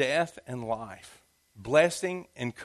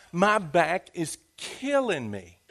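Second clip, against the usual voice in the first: mock complaint; slower than usual. Shown as a demonstration. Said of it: "Just for example".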